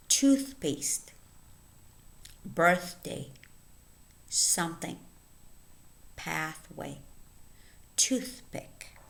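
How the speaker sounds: isolated words, carefully articulated with long pauses; listen-and-repeat word reading. Shown as a demonstration. Teacher reading a word list for learners, careful and separated. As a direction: read each word as a model to copy. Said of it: "Listen and repeat".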